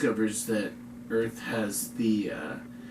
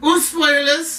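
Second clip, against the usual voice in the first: high, loud, slow fake German accent; 8 dB louder, slower than usual. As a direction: boom it out in a hammy German accent. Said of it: "fake German, terrible German accents aside".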